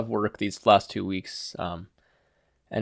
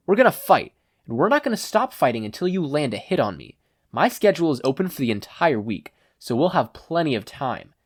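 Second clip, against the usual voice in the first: lion hero; 5 semitones higher than usual. Acted. Hero lays out training.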